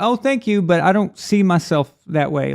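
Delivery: politely decline, retelling it; retold courteous refusal; nicely polite. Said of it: "I just nicely said".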